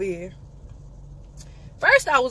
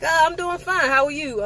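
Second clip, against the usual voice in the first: sweet polite voice; 7 semitones higher than usual. Retold or imitated. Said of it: "I was like".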